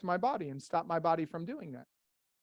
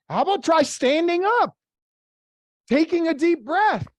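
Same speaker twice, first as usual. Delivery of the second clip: louder, higher, pumped-up suggestion; energized; 6 semitones higher, 9 dB louder than usual. Shown as a demonstration. Coach showing the room how to break a slump, energized. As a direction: lift the room with it. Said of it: "Watch my body".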